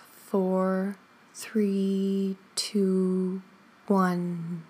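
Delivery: slow, drawn-out counting with even spacing; guided breath count. Shown as a demonstration. Teacher counting listeners in to four and out from eight, measured and sustained. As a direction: count them gently through a long breath.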